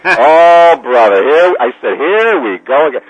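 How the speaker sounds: loud, drawn-out "here we go again" exasperation; exasperated groaning. Retold or imitated. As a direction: groan it out loudly, theatrically put upon. Acts out his dread at the request.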